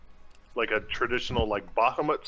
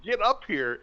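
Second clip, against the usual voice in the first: imitating a flustered summons, raised pitch; mock flustered call; 3 semitones higher than usual. Tarhun throwing Reynard's summons back, mock flustered. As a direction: mimic someone's flustered call. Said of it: "you sounded very flustered".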